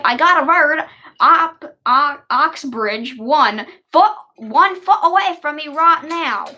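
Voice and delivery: a light put-on Texan voice for the captain's line; hint of a Texan drawl; Texan accent. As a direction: read it like a Texan. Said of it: "doing different voices".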